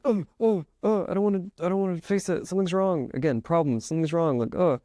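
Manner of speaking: high, jittery inner voice that won't settle; anxious racing thoughts. Retold or imitated. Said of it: "really fast thoughts of".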